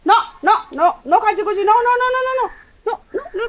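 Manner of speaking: high, rising repeated no; telling the dog no. Real, not acted. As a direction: stop the dog from scratching, pitch climbing.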